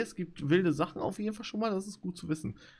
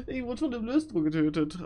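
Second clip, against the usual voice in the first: mock crying; 7 semitones higher than usual. Wiederholt mit gespieltem Weinen.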